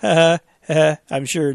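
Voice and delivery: a short derisive chuckle into the words; scoffing little laugh; mocking laugh. Real, not acted. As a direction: laugh mockingly as you start. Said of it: "or mockingly laughing".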